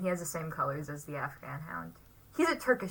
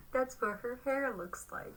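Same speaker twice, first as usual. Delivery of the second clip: laughing whisper; 4 semitones higher, 3 dB quieter than usual. Real, not acted. Laughing right after a joke.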